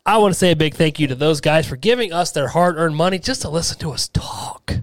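running out of air; words fading on the last breath. Real, not acted. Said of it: "Look, I'm running out of wind".

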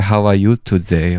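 slow, suave mock German accent; lightly voiced German accent. Shown as a demonstration. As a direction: play it smooth in a German accent. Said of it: "when I use a German accent".

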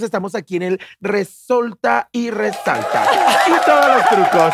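mock TV host. Host opens a mock segment for the housemates, hammed-up host voice. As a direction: ham it up like a tacky TV host.

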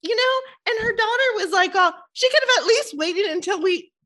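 words pushed out high through laughter; laughing while talking. Real, not acted. Laughing while retelling the death.

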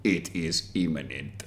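slow, low breathy ad voice; sultry perfume ad. Pretend. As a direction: purr it like a perfume advert. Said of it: "That should be the slogan for it".

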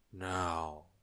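ponderous giant, roar reined in. A narrator's reading. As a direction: giant voice without the thunder. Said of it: "in a much quieter voice".

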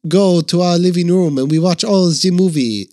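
halting mock-French intro; lightly French-accented host. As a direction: keep up a put-on French accent. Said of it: "There's your French".

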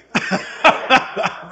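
loud burst of laughter; hearty, loud real laugh. Real, not acted. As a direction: laugh out loud at your own joke. Laughs after own punchline.

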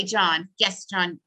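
normal talking voice

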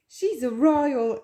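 slow drawn-out villain line; a hint of a scheming henchman. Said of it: "een van die slechteriken en zegt dan".

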